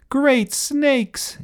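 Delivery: very high alarmed exclamation; yelling. A narrator's reading. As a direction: yelp it in alarm. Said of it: "yelled Alfred".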